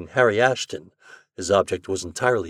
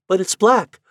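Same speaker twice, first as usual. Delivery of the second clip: excited question; 9 semitones higher, 7 dB louder than usual. Acted. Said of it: "she exclaimed".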